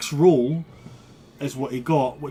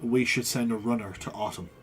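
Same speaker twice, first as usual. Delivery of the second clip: low, measured royal advisor; a lower, careful statesman's voice; Kernan's earnest counsel; 4 semitones lower, 3 dB quieter than usual. Acted.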